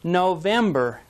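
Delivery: November slow, second syllable hit; no-VEM-ber, slow; stress on VEM. Shown as a demonstration. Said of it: "Stress is again on the second syllable".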